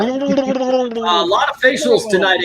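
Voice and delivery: high, fast gurgly underwater voice. Pretend. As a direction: read it like you're underwater. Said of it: "you gotta read it like you're underwater".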